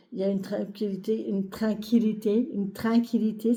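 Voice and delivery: slipping into a Québécois accent on tranquillité. Real, not acted. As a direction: say "tranquillité" with a Quebec twang, first vowel turned nasal "train". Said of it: "C'est quoi cet accent, euh, qui me vient?". (accent québécois involontaire sur « tranquillité »)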